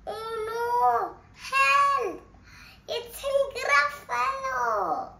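high, loud cries for help; a mouse yelling in fright; panicked cry. Acted. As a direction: shriek for help as the monster looms. Mouse meets the real gruffalo.

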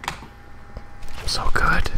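slow whispered brag; unvoiced, very slow boast; smug whisper. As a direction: breathe it out slowly to yourself.

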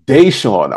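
"Deshaun" repeated as DAY-shawn; corrected pronunciation. Real, not acted. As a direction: echo "Deshaun" with a clear DAY at the start. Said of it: "did I say it right".

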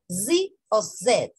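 "Z o Z" as "zee o zed", slowly; American, then British Z. Shown as a demonstration. Teacher offers both letter names, "zee" or "zed". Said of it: "En el inglés americano se dice Z".

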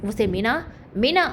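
mild mock shout calling her name; shouting for Meena. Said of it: "గట్టిగా అరుస్తూ ఉంటే". (మీనాను గట్టిగా అరుస్తూ పిలవడం, తేలికగా)

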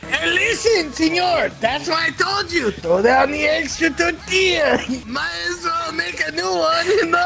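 loud, hammed-up Mexican accent. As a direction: play a bossy burrito guy in a Mexican accent. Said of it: "I can't do a Mexican accent".

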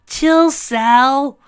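high cocky Sonic voice; nonchalant. Acted. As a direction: toss it off, unbothered. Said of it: "Sonic replied nonchalantly".

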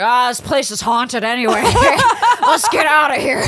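laughs through a breezy brush-off; laughing dismissal. Retold or imitated. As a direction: shrug it off, giggling. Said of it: "he was like".

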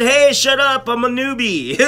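giggling mock protest; laughing protest. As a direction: laugh while defending yourself. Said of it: "I said".

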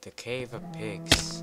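high, loud, slow grand announcement; loud, slow title announcement; dramatic announcer. Pretend. Announcing the cave name.

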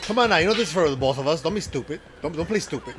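quick, mildly scolding girlfriend imitation; quick retold nagging; retold attitude. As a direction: rattle it off with a touch of attitude. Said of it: "she had this attitude with him".

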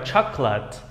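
chocolate ending in a weak "lət"; schwa ending "-lət". Shown as a demonstration. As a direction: reduce the last syllable of chocolate to a schwa. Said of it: "các em đọc thành âm earth". (đọc chocolate, đuôi nhẹ "lợt")

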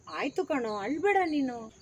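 soft, easy reassurance; relaxed, soothing. Shown as a demonstration. Director shows a child how to comfort someone crying, relaxed. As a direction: take it gently and unhurried. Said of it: "ಆರಾಮಾಗಿ ತಗೋ ಪುಟ".

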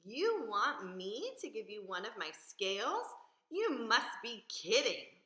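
mock him with disbelief; proud fish scoffing; scornful outcry. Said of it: "Rainbow Fish cried".

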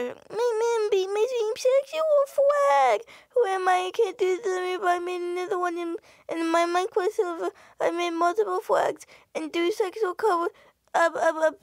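mock whiny voice. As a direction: whine it like a wronged kid.

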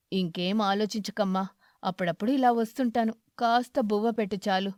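kindly aged beggar, content; grateful old eagle. Acted. Eagle character voice.

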